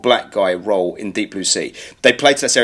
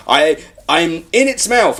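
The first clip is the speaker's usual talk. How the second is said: slow, slightly raised imitation of the heroine; deliberate, stilted mock explanation; mock calm narrating; 4 semitones higher, slower than usual. Heroine reporting from inside shark's mouth, mock calm narration. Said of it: "you don't talk like that".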